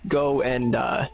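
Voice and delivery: high, gentle polite request; sweet old NPC voice. Acted. GM voicing NPC asking favor.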